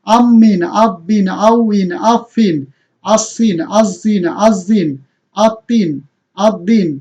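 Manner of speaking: each syllable like আম্মিন said with a doubled consonant and a clear final -in; Arabic tanween drill. Shown as a demonstration. Teacher chanting the double kasra drill for students. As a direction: chant আম্মিন, আব্বিন one at a time, holding the doubled letter. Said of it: "আপনারা যদি দুই জের দিয়ে বলেন".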